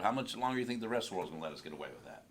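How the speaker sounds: fast, read straight off the page; rushed reading. Shown as a demonstration. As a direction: rattle it off like reading aloud. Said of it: "I started just reading".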